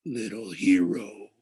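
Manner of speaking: slow amused echo from below; amused ancient voice. A narrator's reading. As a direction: savour the words like an ancient thing. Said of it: "a mused voice echoed far down".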